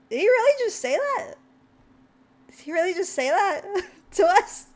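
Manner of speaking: high, incredulous retold question; stunned disbelief. Streamer retelling their shock at a rude seller, stunned disbelief. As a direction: relive being stunned, pitch jumping up. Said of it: "Chaos and I were kind of, like, stunned for words".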